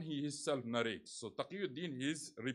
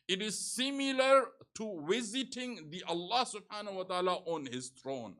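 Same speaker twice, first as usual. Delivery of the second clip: sermon recitation; 4 semitones higher, 3 dB louder than usual. Acted. Preacher quoting the sixth Imam on visiting Karbala, emphatic proclamation. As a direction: proclaim it with rising force.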